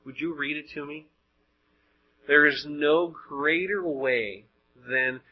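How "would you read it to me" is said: soft, quick, gentle ask; humble request. Acted. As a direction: ask it quietly, as in prayer.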